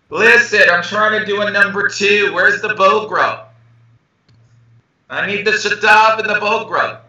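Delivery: high, hammed-up plea for toilet paper; mock desperate plea. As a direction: play someone stuck in the bathroom, pleading. Role-playing needing toilet paper.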